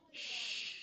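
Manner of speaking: unvoiced hush to the class; a soft shush for quiet. Real, not acted. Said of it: "teacher hushing class".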